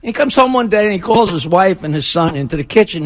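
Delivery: ordinary talk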